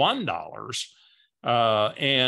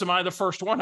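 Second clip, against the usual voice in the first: lightly voiced hopeful question, slightly higher; a hint of an eager friend asking; Barbara's voice; 5 semitones higher than usual. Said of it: "I gotta use her voice".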